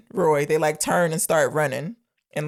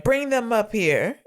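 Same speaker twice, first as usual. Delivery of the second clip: a hint of a commanding villain, slow and higher; quoted order; 6 semitones higher than usual. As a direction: draw out a mock order, lightly voiced. Quotes Odious calling out an order.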